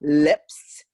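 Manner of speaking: crisp, exaggerated "Lips" with a rise; over-articulate "Lips" for the class; articulated demo. Shown as a demonstration. Voice teacher demoing crisp lips. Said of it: "Let's say that".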